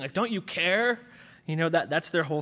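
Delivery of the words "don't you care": accusing. Retold or imitated. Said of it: "they're saying".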